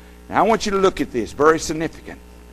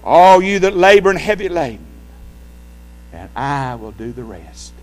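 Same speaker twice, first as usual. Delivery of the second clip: lightly voiced young boy reciting his verse; a boy proudly saying his memory verse; a hint of a child reciting; 2 semitones higher than usual. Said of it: "And this is how he said it".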